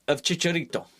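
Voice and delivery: put-on Chicharito said the Spanish way, a light Mexican Spanish accent. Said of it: "I don't know why I did the accent then".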